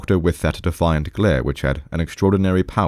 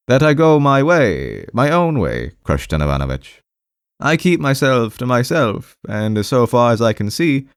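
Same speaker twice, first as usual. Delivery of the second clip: awkward, defensive patient; 6 semitones higher than usual. Acted. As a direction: justify yourself haltingly, high and plaintive.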